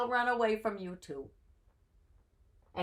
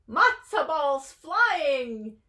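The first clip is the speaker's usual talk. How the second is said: high, slow excited call; excited shout; 5 semitones higher, 5 dB louder, much slower than usual. Acted. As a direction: shout it out with glee. Miss Axelrod calling out.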